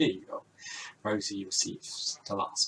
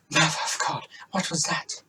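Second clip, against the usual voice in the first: hushed, frightened whisper; scared whisper; 5 semitones higher, 3 dB louder than usual. Acted. Sisters hear a roar in the lobby, scared whisper. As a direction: whisper it so the monster won't hear.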